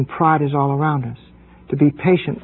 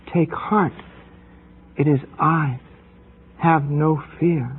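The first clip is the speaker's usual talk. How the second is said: gentle reassurance. Acted. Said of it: "the Lord wants to say to us".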